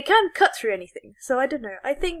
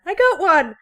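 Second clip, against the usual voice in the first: higher, louder triumphant yell; excited cry; 8 semitones higher, 4 dB louder than usual. Retold or imitated. Retelling the quest to friends, excited yell. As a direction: shout the find.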